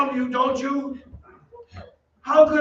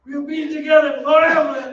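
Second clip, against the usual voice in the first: manic shout; 5 semitones higher, 4 dB louder than usual. Acted. Phantom demanding, unhinged.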